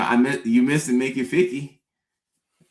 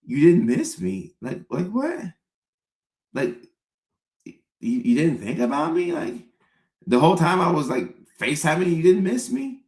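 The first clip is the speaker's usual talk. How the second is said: mock hurt; 4 semitones higher than usual. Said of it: "I'm gonna be like".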